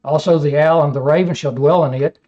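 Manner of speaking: measured, solemn Bible reading; scripture reading. Acted. Preacher reading Isaiah to his class, solemn reading. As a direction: read the prophecy with weight.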